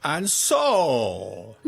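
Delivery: put-on a lightly done German accent. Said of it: "Cue your best German accent".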